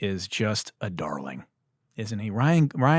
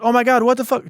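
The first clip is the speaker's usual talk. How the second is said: high, louder stunned outburst; mock shocked disbelief, pitched high; friends amazed; 11 semitones higher, 4 dB louder than usual. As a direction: imitate the table losing it. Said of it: "everyone's like".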